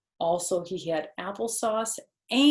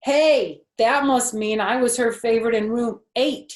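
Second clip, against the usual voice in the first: put-on boy voice; 5 semitones higher, 9 dB louder than usual. Jose boasting.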